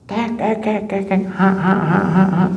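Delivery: high, staccato fake cackle; forced guffaw. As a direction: fake a repetitive belly laugh. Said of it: "ngakak juga".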